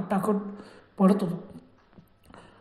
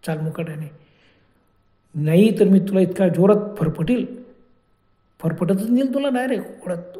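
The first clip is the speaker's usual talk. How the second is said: menacing threat; 4 dB louder than usual. Acted. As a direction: warn the child who will not walk. Witch threatens to drag the child.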